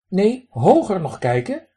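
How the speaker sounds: high, loud duck voice with a raspy quack. Acted. Drake lectures the man who threw pebbles, high raspy quack. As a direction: play a cheeky drake scolding a stranger.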